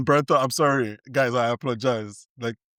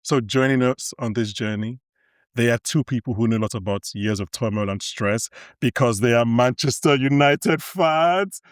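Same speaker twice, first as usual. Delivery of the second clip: podcast intro. Acted. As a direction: announce the show like an epic voyage.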